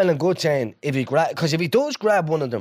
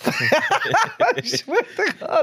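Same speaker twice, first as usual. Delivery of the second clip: laughing high through the words; can barely get it out for laughing; much slower than usual. Real, not acted. Telling the podcast mate the story, laughing hard.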